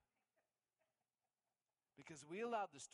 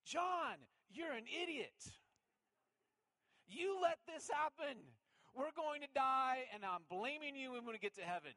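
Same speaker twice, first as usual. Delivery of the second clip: hammed-up scolding from a panicked wife; imagined wife yelling; 10 semitones higher, 7 dB louder than usual. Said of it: "I hear it this way".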